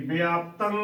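ਵਿਆਪਤੰ as "bi-aap-tang"; correct pronunciation demo. Shown as a demonstration. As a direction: say ਵਿਆਪਤੰ with an i-glide after the b. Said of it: "ਉਚਾਰਨ ਕਰਨਾ ਹੈ".

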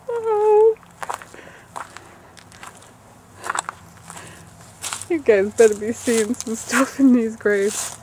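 high, nervous and tense; getting spooked, voice climbing. Real, not acted. Nervous at graves, wants out.

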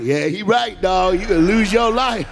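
hammed-up tough guy warning; Philly boys' retort. Philly boys warning the preacher, loud mock tough talk. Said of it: "All the boys from Philly went".

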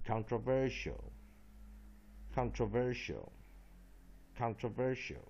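"controversial" with the main stress on VER; stress on third syllable. Shown as a demonstration. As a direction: model "controversial" word by word, leaning on the third syllable. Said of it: "main stress on third syllable".

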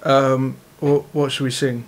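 low, lightly put-on British accent; fake British accent. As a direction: pose as a London lad, low. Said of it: "you just made an English accent".

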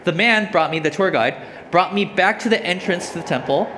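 emphatic, projected Bible reading; scripture reading. Acted. Preacher reading Ezekiel's temple vision to the congregation, emphatic scripture reading. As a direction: read the verse out to the room.

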